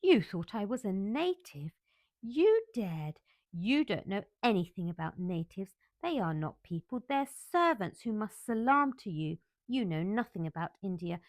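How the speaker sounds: loud, humiliated fury; rage. Acted. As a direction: let the rage pour out unchecked. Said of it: "her rage and humiliation".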